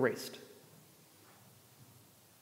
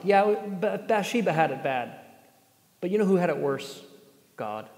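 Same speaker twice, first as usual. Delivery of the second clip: dry sarcasm, close to the usual voice; sarcastic; 2 semitones higher than usual. Acted. Preacher mocking the excuse made for the text, sarcastic. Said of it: "Sorry, that was sarcasm".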